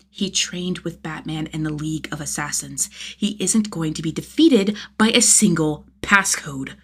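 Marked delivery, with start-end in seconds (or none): 3.2-6.7 fierce whisper through clenched resolve; seething whisper. Acted. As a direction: hiss it with stubborn anger.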